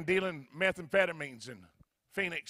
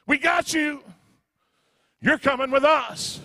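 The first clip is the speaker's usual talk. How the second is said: lightly voiced jeering demons, a bit higher; mocking demons; 6 semitones higher, 8 dB louder than usual. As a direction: taunt him like a gloating demon. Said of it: "demons started popping up, laughing in my face".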